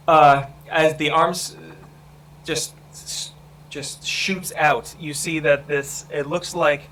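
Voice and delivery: measured suspense narration; game master's scene setting. Acted. Game master tells players the bodies are stirring, suspenseful scene narration. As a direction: narrate the attack with pauses between phrases.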